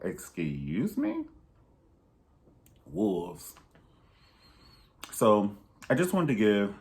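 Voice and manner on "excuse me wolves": indignant disbelief. Acted. Acted indignant reaction.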